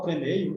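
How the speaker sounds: "premeio" with an ei glide; doubted mispronunciation. Shown as a demonstration. Teacher asking if anyone says that, doubting "premeio". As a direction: query "premeio" with stress on EI. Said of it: "Alguém fala".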